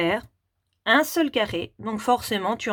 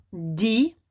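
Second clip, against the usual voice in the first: "dinosaure" as three isolated syllables with long gaps; découpage en syllabes. Shown as a demonstration. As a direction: count out "dinosaure": di... no... saure. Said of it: "les petits carrés pour le mot". (« dinosaure » en trois syllabes très séparées : di… no… saure)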